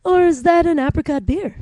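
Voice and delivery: put-on perky suburban Ottawa accent; chirpy Stittsville accent. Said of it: "The Stittsville accent".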